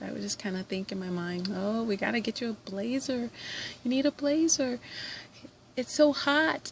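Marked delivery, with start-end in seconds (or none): 1.5-6.7 teasing. Retold or imitated. Retold inner teasing about blazer.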